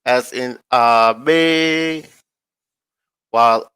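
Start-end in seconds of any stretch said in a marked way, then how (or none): 0.7-2.1 Abe said very slowly, weight on the second syllable; stress on the second syllable of Abe. Shown as a demonstration. Reading name meanings to viewers, Abe stressed on the end. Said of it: "has its emphasis on the second syllable".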